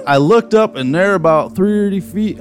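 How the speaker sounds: imitating an eyewitness with a Wisconsin twang; mock Wisconsin accent. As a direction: read it in a hammy Wisconsin accent. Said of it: "can't do it without the accent".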